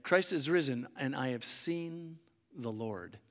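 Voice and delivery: ordinary talk, nothing marked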